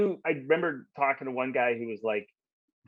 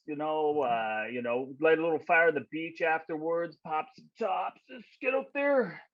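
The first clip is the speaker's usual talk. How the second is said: lightly voiced surfer dude, pitched up in places; surfer bro; 3 dB louder than usual. Surfer invites bro out to hit the waves, lightly put-on bro voice. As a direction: invite them like a laid-back bro.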